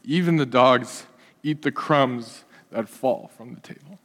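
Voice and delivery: meek soft-spoken supplicant; humble pleading woman. Acted. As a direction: plead gently, head bowed. Preacher voicing the humble woman.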